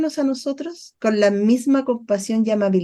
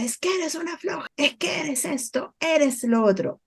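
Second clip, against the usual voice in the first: retold mother's scolding; 4 semitones higher, 6 dB quieter than usual. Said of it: "mamá me grita".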